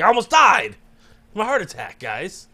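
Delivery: excited outburst tailing off; mock-earnest celebrity confession; Kevin Smith. Shown as a demonstration. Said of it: "Can you do a Kevin Smith impression?".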